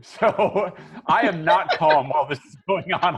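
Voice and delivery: laughing through words; chuckling while explaining. Real, not acted. Laughing after bad roll.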